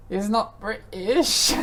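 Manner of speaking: slow, high croaky hag voice mocking a British accent; mock hag voice with a British twist; old decrepit hag. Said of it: "You sound like an old decrepit hag".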